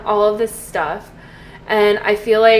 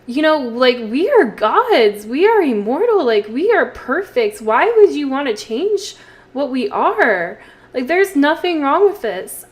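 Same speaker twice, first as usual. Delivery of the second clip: louder, offended protest; indignant outburst; 3 semitones higher, 4 dB louder than usual. Pretend. Caleb defends being a vampire to Lilith, indignant. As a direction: scold her like she's lost her mind. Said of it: "he's going to be like".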